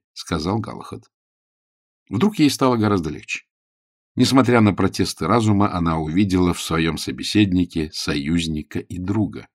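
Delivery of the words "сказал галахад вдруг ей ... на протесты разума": usual speaking voice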